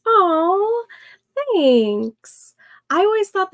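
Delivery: high, swooping "aww" of thanks; touched gratitude. Real, not acted. Streamer thanking a viewer for a compliment, touched. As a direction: melt at a kind compliment.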